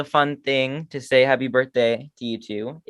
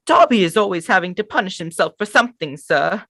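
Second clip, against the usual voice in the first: higher, eager house-elf voice; Dobby voice; 9 semitones higher than usual. Retold or imitated. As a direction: play the anxious little elf. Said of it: "I can never get his voice down".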